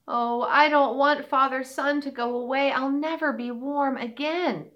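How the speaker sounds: lightly voiced sad little deer; a hint of a forlorn fawn; shy fawn voice. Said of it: "said the little deer".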